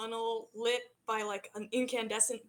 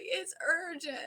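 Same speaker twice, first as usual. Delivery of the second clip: a hint of a small girl, higher and insistent; little girl; 6 semitones higher than usual. Little girl insists to her father, lightly high child voice. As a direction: press it like a kid who can't wait.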